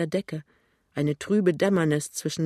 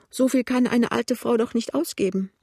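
put-on high, fretful old woman; anxious; 7 semitones higher, 4 dB louder than usual. A narrator's reading. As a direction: ask it in a high, worried whine. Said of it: "fragt sie ängstlich". (ängstlich, hohe klagende Stimme)

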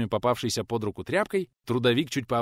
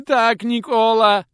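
high, loud, slow wail; boy wailing his confession; bawling confession; 10 semitones higher, 12 dB louder, much slower than usual. Acted. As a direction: burst out crying as you admit it. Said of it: "разревелся в ответ тот".

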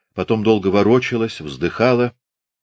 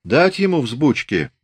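slow, higher musing question; pensive; 6 semitones higher than usual. A narrator's reading. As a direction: weigh it up aloud, drawing the words out. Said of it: "раздумчиво спросил дюжий казак".

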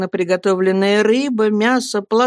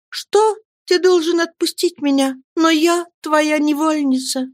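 put-on higher girl's voice, firm and earnest; earnest young woman; 10 semitones higher than usual. Girl explains to her lover he must truly believe, earnest. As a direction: plead your faith to him.

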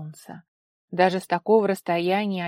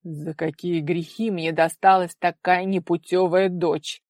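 slow, louder rueful grumble; wry lament; 7 dB louder than usual. A narrator's reading. Father lamenting his wayward daughter with a wry smirk. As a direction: sigh at fate with a smirk. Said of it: "неопределённой усмешкой произнёс держатель".

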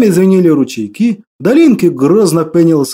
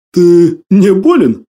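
unsure; 3 dB louder, much slower than usual. Acted. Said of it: "неуверенно отозвался учитель".

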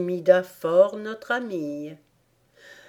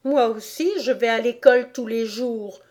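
put-on higher-pitched sulky little girl; voix boudeuse; 4 semitones higher than usual. A narrator's reading. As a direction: sulk back at the turtle. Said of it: "d'une voix boudeuse". (petite fille boudeuse)

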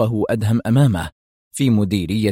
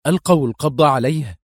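startled question, pitched up; alarmed murmur; 5 semitones higher than usual. A narrator's reading. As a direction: ask it in alarm, without muting it. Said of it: "يغمغم في ارتياع". (سؤال في ارتياع)

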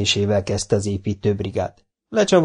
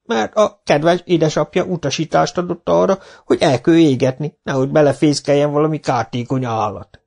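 high, mock-innocent old villager; innocent old man; 5 semitones higher than usual. Old Zsibora explaining to the foreman, mock-innocent. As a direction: play dumb, sweetly.

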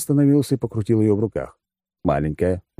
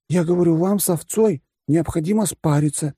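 patient repeat; 11 semitones higher than usual. A narrator's reading. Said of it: "терпеливо повторил Пух".

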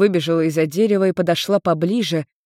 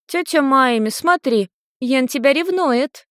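put-on high teasing child's voice; giggly little girl; 7 semitones higher than usual. A narrator's reading. Lucy teasing Maimi from behind a tree, high gleeful. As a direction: tease like a gleeful kid. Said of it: "хихикающая Люся".

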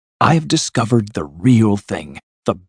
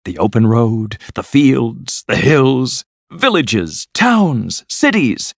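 building, high-pitched enthusiasm; rapturous cry; 5 semitones higher, 3 dB louder than usual. A narrator's reading. Toad sells his friends the open road, rapturous and building. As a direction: list each wonder with mounting excitement. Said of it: "cried the Toad".

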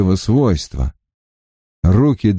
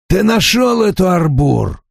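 sharp demand; 9 semitones higher than usual. A narrator's reading. Demanding question.

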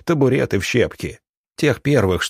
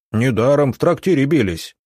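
shout; 4 semitones higher than usual. Acted. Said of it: "крикнул парень в драной шапке".

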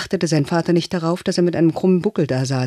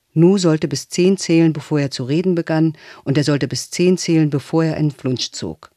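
ordinary delivery, nothing marked

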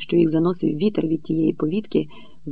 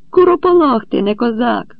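much higher, loud furious yell; shouted insult; 7 semitones higher, 6 dB louder than usual. A narrator's reading. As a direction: scream the insult in his face. (лютий вигук у сварці)

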